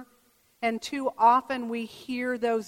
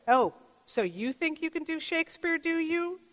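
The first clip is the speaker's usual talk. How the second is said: mocking inner voice; 5 semitones higher than usual. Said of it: "voices in his head that rattled on".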